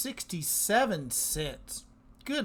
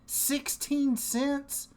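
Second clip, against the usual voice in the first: higher, slow incredulous question; surprised disbelief; 7 semitones higher, much slower than usual. Real, not acted. Host marvels at the unexpected distribution, surprised. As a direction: draw out the amount in amazement. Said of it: "I am so surprised with that".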